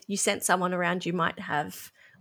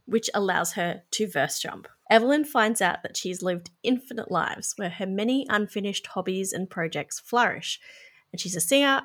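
measured film summary narration; scripted synopsis read. Real, not acted. Host reads the film's plot to listeners, scripted narration. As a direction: read the plot out evenly from prepared notes.

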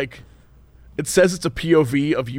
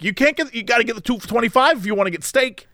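imitating waitress; 5 semitones higher than usual. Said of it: "her just being like".

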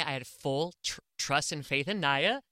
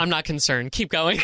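raised voice over a blaring alarm; shouting over fire alarm; 8 dB louder than usual. Real, not acted. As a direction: call out over the noise, unbothered.

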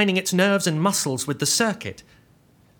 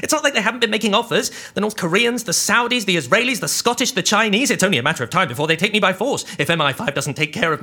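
panicky; 5 semitones higher than usual. Acted. Panicked rant.

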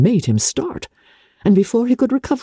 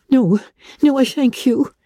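higher voice, trying to sound composed; distressed young woman; 7 semitones higher than usual. A narrator's reading. Elizabeth declines Darcy's help, higher and strained but polite. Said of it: "endeavouring to recover herself".

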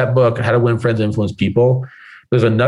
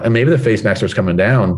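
usual speaking voice

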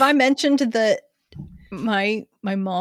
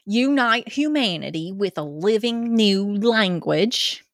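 put-on Georgia accent. Co-host reading Ten Commandments to listeners, Georgia accent. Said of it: "do this in Georgia accent".

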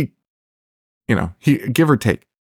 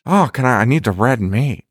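a hint of the pitched-up villain voice; mock creepy voice. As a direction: lightly mimic the actor's creepy line. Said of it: "It's just higher pitch".

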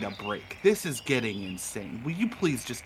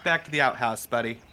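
frog guards' voice; 5 semitones higher, faster than usual. Acted. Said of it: "And they're like".

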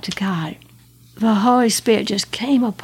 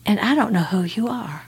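whispered answer. Retold or imitated. Answering herself in shock.

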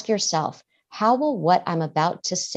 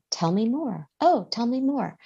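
gentle invitation; 6 semitones higher than usual. Shown as a demonstration. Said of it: "Just say".

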